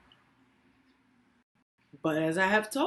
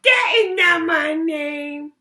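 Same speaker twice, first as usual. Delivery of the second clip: much higher, much louder, slow shouted goblin; 10 semitones higher, 11 dB louder than usual. Acted. Goblin taunts Lily with a deal, high slow shout. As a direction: bellow it like a gleeful goblin. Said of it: "smiled the goblin".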